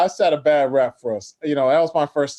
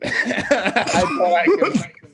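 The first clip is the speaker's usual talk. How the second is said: laughing; 3 semitones higher, slower than usual. Real, not acted. Laughing repeat of his own line.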